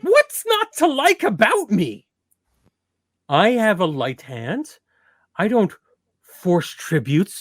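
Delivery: pout, wounded vanity; whiny vain prince. Acted. Prince whining about being disliked.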